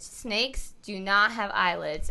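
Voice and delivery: put-on slow, each word laid out for the child; slow insistent drill. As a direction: spell it out word by word like a patient therapist. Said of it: "No, you say it".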